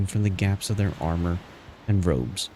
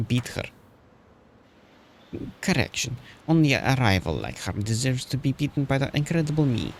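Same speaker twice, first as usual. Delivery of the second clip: a hint of a French accent, pitched higher and boastful; vague French-ish rival girl voice; 5 semitones higher than usual. Streamer voicing the boastful rival girl, a light French-ish lilt. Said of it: "Not exactly doing a French accent, per se".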